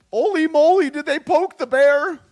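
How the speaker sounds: high, loud, hammed-up Scottish accent impression; Scottish Jordan Peterson. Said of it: "Why am I doing Scottish Jordan Peterson?".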